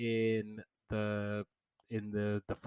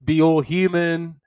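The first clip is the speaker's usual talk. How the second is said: mock gushing; 5 semitones higher than usual. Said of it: "I'm thinking".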